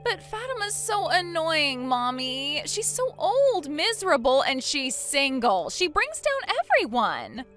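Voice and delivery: aggrieved whine, pitched well up; whiny complaint. Acted. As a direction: complain like a spoiled child. Bride complains about fiancé's sister.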